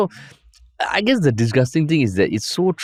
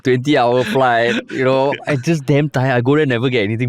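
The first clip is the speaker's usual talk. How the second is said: tired minister whining; 2 semitones higher than usual. Pretend. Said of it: "imagine Gan Kim Yong going to Lawrence Wong".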